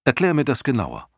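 leicht gespielter Atreju, deutlich höhere Stimme; hoch ansetzen und nachdrücklich um Erklärung bitten; Atreju, ratlos fragend. Acted. (ratloser Atreju mit höherer Stimme)

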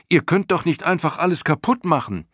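high-pitched, agitated cry; protesting shout. A narrator's reading. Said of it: "schrie Bastian". (aufgebracht schreien, mit hoher Stimme)

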